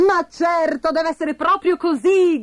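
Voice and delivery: acted shout of sudden realization; excited cry. A narrator's reading. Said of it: "gridò Bastoncello".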